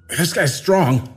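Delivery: slow strain through clenched teeth; through gritted teeth. A narrator's reading. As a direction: squeeze it out with effort. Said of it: "he said through gritted teeth".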